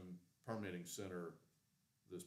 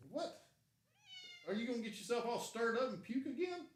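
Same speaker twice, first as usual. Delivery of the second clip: high, louder cooing at the pet; 5 dB louder than usual. Real, not acted. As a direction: scold the cat sweetly. Asking cat if it'll puke.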